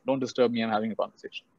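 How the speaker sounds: calm king who won't be disturbed; unperturbed king. Retold or imitated. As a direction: wave off the guard quietly, pitch dropped. Calm king dismisses the guard again.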